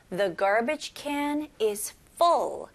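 slow, careful English reading; slow model sentence. Shown as a demonstration. Teacher reading the last example slowly. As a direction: read it slowly for learners. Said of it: "쓰레기통이 가득 찼어".

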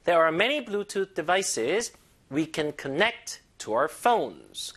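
devices stressed on VI, connect on its second syllable; measured teacher's reading, leaning on many, connect, phones; careful stress model. Shown as a demonstration. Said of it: "강세 주의하시고".

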